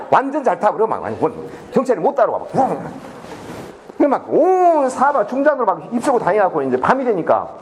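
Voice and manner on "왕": long motorbike noise made by mouth; imitated engine roar. Students outrun the police on motorbikes, imitated engine roar. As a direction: mimic a bike speeding off.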